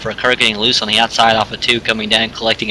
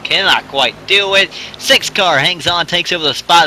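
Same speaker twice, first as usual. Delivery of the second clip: excited; 6 semitones higher than usual. Real, not acted. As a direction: ride the tension of the battle. Close battle for position.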